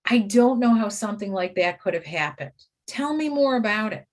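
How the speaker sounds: mildly puzzled, innocent asking; understated mock bewilderment; playing dumb. Shown as a demonstration. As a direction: feign not knowing, gently curious. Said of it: "Play dumb".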